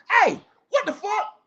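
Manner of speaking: high, loud startled yell; startled shout. Retold or imitated. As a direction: burst in yelling at her. Bursting into the room yelling.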